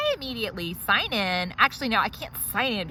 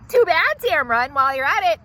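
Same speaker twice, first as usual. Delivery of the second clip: dismissive snap; 6 semitones higher, 7 dB louder than usual. Acted. Dismissing the hygienist.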